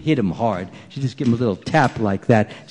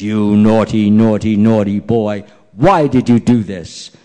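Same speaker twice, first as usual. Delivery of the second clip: louder, lower mock telling-off; scolding mother; 4 semitones lower, 5 dB louder than usual. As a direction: play a stern mother who caught her child. Mother scolds child she caught.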